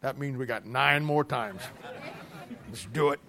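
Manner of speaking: put-on low, soft scheming child; mock kid whisper-plot. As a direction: plot quietly like a sneaky kid. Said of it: "Kid says to the brother".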